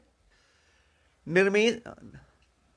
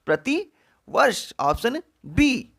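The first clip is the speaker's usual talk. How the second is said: प्रतिवर्ष and ऑप्शन बी slow and a bit higher; slow emphatic answer; 5 semitones higher, slower than usual. Shown as a demonstration. Teacher announcing the answer slowly, emphatic. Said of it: "प्रतिवर्ष का शुद्ध रूप".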